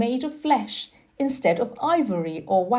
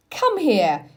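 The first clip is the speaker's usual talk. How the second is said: shout; 2 semitones higher, 4 dB louder than usual. Acted. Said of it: "he shouted to Dickon".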